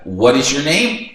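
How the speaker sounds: slowed classroom English; slow model question. Shown as a demonstration. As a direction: ask it slowly and clearly. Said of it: "pergunta pro colega". (pergunta lenta e clara)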